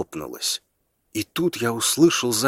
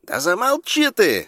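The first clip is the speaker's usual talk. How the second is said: snapping hush; 7 semitones higher than usual. A narrator's reading. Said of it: "оборвал его кто-то".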